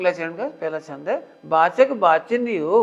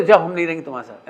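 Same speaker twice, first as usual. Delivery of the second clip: mock huffy dismissal; 3 semitones lower, much faster than usual. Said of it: "एक second कह दो".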